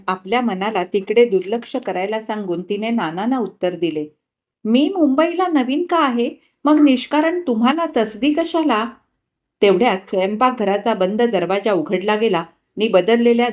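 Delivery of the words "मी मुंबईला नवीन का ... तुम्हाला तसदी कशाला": lightly voiced young woman, a bit higher; Vrunda's polite reply. Vrunda politely declining Nana's offer, lightly voiced. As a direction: gently turn down the offer.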